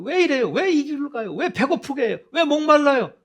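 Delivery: high, loud volley of whys; hammed-up protest, pitched well up; confrontational complaining. Israelites challenging God in the wilderness, confrontational complaining. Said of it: "끊임없이 하나님께 따지는".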